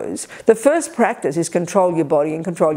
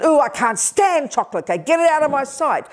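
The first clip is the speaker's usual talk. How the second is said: mock angry aversion; 7 semitones higher than usual. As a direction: act out a mild fit of aversion. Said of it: "That's a, called anger".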